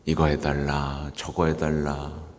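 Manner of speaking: low, slow imitation of demanding parishioners; droning demands. Priest mimicking parishioners who keep demanding things, low droning list. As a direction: reel off requests in a monotone.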